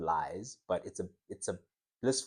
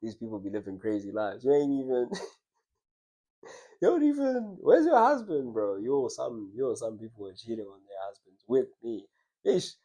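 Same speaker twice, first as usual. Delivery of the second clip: judgy scoff. Retold or imitated. Judging women cheating on husbands, in a mocking scoff. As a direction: scoff at them with a jump up in pitch. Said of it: "I'm just like".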